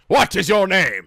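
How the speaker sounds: slow, weighty question, leaning on what; a lightly voiced Holy Grail bridgekeeper; bridgekeeper impression. Quizzing the anime characters, in a slow mock bridgekeeper voice. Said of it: "Holy Grail flashbacks".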